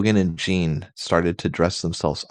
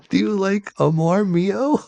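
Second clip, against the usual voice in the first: high voiced character. Character line in read fanfic.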